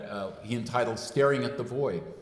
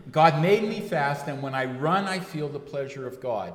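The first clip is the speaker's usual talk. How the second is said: Scottish brogue; 3 semitones higher, 3 dB louder than usual. Retold or imitated. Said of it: "good Scottish accent".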